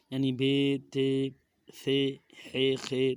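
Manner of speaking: "بے، تے، ثے" ending in an ay vowel; Urdu letter names. Shown as a demonstration. Teacher shows what to avoid, Urdu-style "بے، تے". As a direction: read "بے، تے" the Urdu way, as "bay, tay". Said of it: "Urdu تلفظ سے پرہیز کریں".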